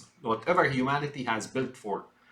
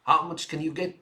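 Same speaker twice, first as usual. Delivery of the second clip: higher, excited mock voice of a greedy politician; a put-on, giddy voice, pitched up; imitating an eager Biden; 5 semitones higher than usual. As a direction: ham up his glee at the money. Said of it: "And he goes".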